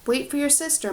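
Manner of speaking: loud, firm mother's command; mother ordering her son to wait; ordering mom. Acted. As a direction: call him back sharply. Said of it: "Mom ordered".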